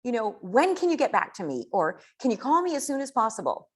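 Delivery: excited voice message. Shown as a demonstration. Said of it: "The voice message should be".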